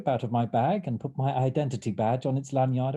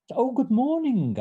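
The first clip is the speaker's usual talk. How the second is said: high, louder breezy greeting; breezy yet authoritative; 13 semitones higher, 5 dB louder than usual. A narrator's reading. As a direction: greet breezily, as the one in charge. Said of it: "breezily yet authoritatively".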